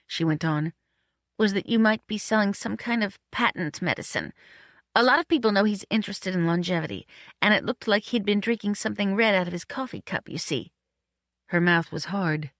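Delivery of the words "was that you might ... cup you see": lightly voiced woman, mild suspicion; suspicious Marion. Woman suspects man of selling patent medicine, lightly wary. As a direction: explain your suspicion with a touch of wariness.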